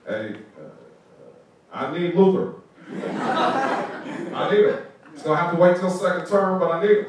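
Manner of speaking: a hammed-up "I need him"; imitating the president. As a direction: play the president insisting playfully. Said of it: "he comes up to us and he goes".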